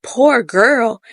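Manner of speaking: mildly mocked-up querying retort; questioning echo. Wife echoes husband's words about the girl, questioning. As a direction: repeat "Poor girl" back as a doubting question. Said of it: "And she's like".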